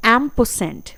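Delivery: एम्परसेंड repeated carefully; pronunciation demo. Shown as a demonstration. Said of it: "ध्यान से सुनिए".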